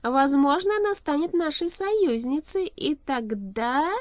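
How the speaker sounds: high, loud, slowing into anticipation; gloat, stretching the last words; triumphant. A narrator's reading. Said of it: "торжествующе сказал король".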